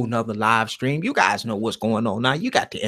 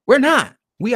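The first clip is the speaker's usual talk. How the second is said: emphatic; 10 semitones higher, 6 dB louder than usual. Real, not acted. Insisting they are not slaves.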